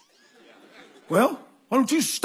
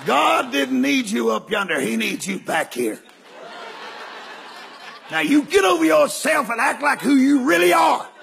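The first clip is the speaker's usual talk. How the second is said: scolding wife; 2 semitones higher than usual. Retold or imitated. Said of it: "Miss Hogan just turned and looked at me".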